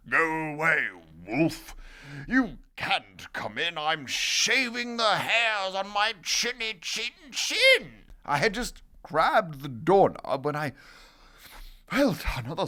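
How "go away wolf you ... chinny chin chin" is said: yelling little pig. Acted. Second pig sends the wolf away, yelling back. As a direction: yell back through the door as the pig. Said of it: "He yelled back".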